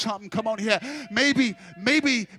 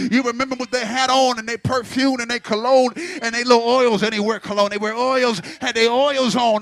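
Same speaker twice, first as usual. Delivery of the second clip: preaching; 4 dB louder than usual. Acted. Preacher builds again.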